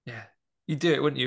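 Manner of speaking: ordinary talk, nothing marked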